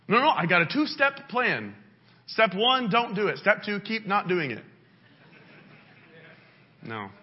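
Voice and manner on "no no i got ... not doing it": mock self-assurance. Acts self-sufficient sinner's plan.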